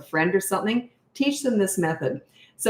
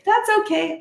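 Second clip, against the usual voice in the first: mock polite reply. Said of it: "you're supposed to say".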